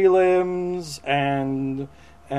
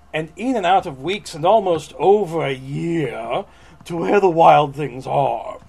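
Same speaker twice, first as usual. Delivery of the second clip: theatrical picture-book narration; storybook read-aloud; 4 dB louder than usual. Acted. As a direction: stretch the last phrase for effect. Reads the book text aloud.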